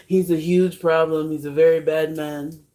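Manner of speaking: lightly mimicked politician; just a hint of presidential parody; Trump. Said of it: "Trump impression".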